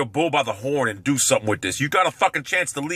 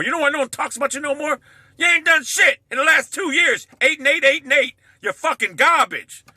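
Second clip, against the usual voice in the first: higher, louder, yelling the insult; taunting rivals with a loud jeering yell; angry shout at rival fans; 11 semitones higher, 3 dB louder than usual. Real, not acted. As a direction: tear into the Steelers fans at full volume.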